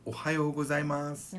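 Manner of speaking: gozaimasu ending on s, no u; silent final u. Shown as a demonstration. Teacher recommending the best form, gozaimasu without final u. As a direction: finish gozaimasu on a plain s. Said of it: "almost always best to do".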